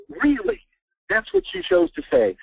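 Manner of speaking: very high-pitched disbelief; scornful, squeaked-up astonishment; incredulous. Real, not acted. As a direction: question it as if you can't believe it. Scoffs at the website slogan.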